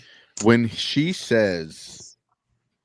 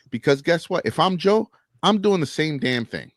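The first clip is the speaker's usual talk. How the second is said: fired up; 6 semitones higher than usual. Real, not acted. Passionate defense of Joe.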